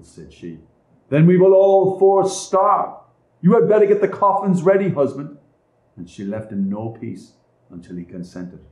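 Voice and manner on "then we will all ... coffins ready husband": scornful stepmother. A narrator's reading. Stepmother to her husband, louder and scornful. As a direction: cut him down with contempt.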